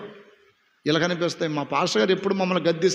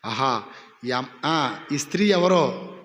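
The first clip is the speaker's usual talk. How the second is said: mock charmed husband; 7 semitones lower than usual. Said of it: "నా భార్య ఎప్పుడు ఇట్ట మాట్లాడితే".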